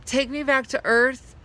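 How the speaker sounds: high, pleading cry; crying out in fear. A narrator's reading. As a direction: beg the horse in fear. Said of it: "I cried".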